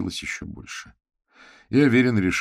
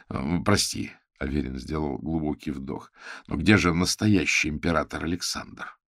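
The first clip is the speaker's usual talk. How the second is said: usual speaking voice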